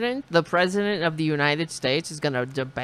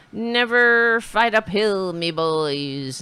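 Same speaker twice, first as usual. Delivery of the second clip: put-on Irish accent; slower than usual. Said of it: "I didn't know he was Irish".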